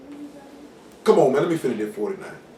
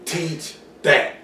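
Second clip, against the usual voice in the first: Enzo Amore; 4 semitones lower than usual. Retold or imitated. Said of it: "Enzo come out, he say".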